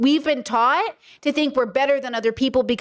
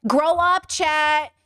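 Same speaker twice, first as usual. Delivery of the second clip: higher-pitched mock scolding; dismissive shaming; 3 semitones higher than usual. Voicing patriarchy shaming chat for being shocked, dismissive. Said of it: "justification of patriarchy to say".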